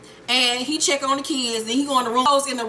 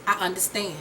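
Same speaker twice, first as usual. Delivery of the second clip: quiet understanding; 4 semitones lower, 6 dB quieter, faster than usual. Retold or imitated. Acted grave, quiet reply.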